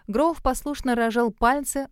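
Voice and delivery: ordinary delivery, nothing marked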